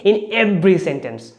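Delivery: every picked out as the hero word; stress on every. Shown as a demonstration. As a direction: punch "every", then ease off. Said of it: "every is a hero".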